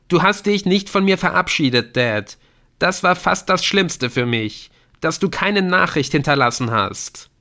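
high, pained, close to tears; grieving son. Acted. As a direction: let the hurt break through. Adrian grieves over no farewell. (schmerzerfüllt, den Tränen nah)

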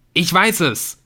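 high, loud cry of discovery; excited yell. A narrator's reading. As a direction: yell it with the voice tipping over. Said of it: "schrie Nick. Seine Stimme kippte". (aufgeregter Schrei)

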